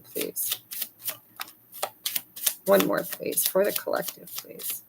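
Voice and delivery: soft unvoiced whisper, begging the deck; whispered plea. Real, not acted. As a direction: whisper it like a little prayer to the cards. Asking the cards in a hush.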